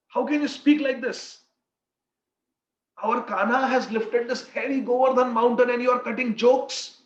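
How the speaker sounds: put-on a mother scolding the joking boy; chastising mother. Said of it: "she starts chastising Madhumangal".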